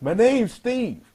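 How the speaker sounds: mock yell, very high, as if across a distance. Retelling how he yelled his name back from far away: imitating someone yelling back. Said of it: "he yells back".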